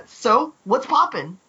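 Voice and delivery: laid-back, slow and casual; cool slang greeting. Pretend. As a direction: say it like a cool kid. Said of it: "now I can do it in quote form".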